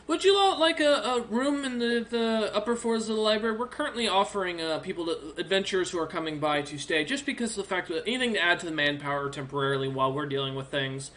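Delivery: lightly voiced helpful orc librarian, eager; a friendly old bookkeeper orc, perking up.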